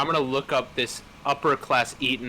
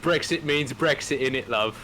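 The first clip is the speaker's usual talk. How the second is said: lightly put-on posh British accent, a touch like a Tory; mock posh British. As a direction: tease in a half-hearted posh British voice. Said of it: "I used to talk posh".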